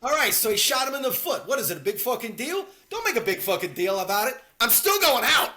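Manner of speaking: hammed-up tough-guy rant; Tommy impression. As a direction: shout it like a hothead. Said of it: "'cause Tommy says".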